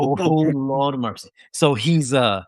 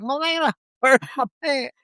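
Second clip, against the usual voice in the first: mock chaplain call; 8 semitones higher than usual. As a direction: tease it like the whole unit did. Teasing while showering.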